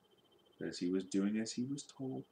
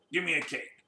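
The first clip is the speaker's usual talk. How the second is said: snapped; 5 semitones higher than usual. Acted. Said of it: "snapped Mister Grumpy".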